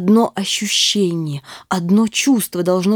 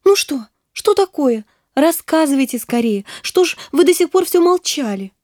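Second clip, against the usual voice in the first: put-on higher, quicker girlish questions; a girl impatient for news; Nastenka, eager; 7 semitones higher than usual. A narrator's reading. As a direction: press him, eager and high.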